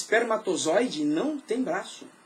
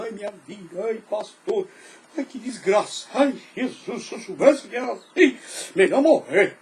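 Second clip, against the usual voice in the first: mock whining complainer; 3 dB louder than usual. Mocking complaining believers.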